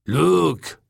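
high, loud drawn-out hail; Taka's character voice. A narrator's reading. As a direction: call it out long and high. Taka greets Holt in story.

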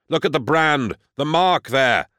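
urgent yelling at the marine; yelled. A narrator's reading. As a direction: shout to make him see the mark. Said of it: "I yelled".

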